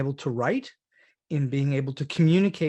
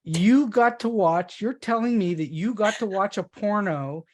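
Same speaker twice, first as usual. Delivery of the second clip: real incredulity; 6 semitones higher than usual. Real, not acted. Host repeating her Robert Evans story back, astonished.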